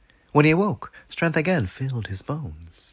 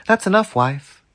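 firm; 10 semitones higher, 7 dB louder than usual. Acted. Husband stopping wife drinking.

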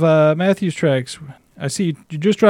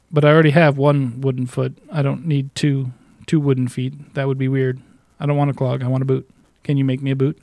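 Canadian pirate. Acted. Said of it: "I like how you went Canadian".

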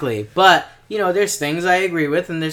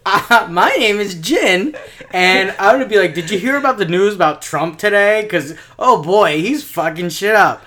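imitating co-host; 3 dB louder than usual. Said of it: "I'll talk back with things you would say".

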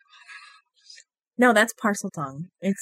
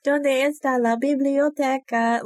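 tourist Spanish; 6 semitones higher, slower than usual. Pretend. Mock tourist phrasebook Spanish.

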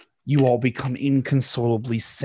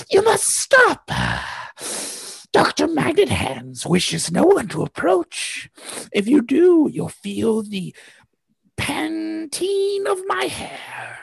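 very high, loud villainess; a shrill guardian barring the door; villain woman voice; 3 dB louder, slower than usual. Acted. Harpoon Hair warning the heroes off, very high and slow at the end. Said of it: "she throws out her hands and she's like".

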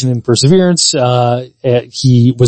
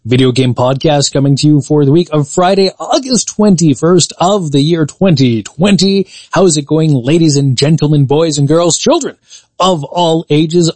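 ringmaster. Acted. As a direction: roll it out like a circus ringmaster. Podcast host's showman opening.

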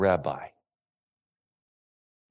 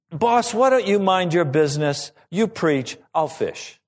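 higher, testy pushback falling off at the end; Peter talking back; 5 semitones higher, 3 dB louder than usual. Acted. Peter telling Jesus to stick to preaching, indignant. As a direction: push back at a bossy preacher. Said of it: "It's almost like Peter saying".

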